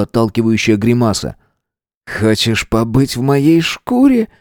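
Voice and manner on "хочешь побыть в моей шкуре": slow, coolly needling question; cold. Acted. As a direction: ask slowly with cold control, pitch slightly raised. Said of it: "холодно осведомился Свободин".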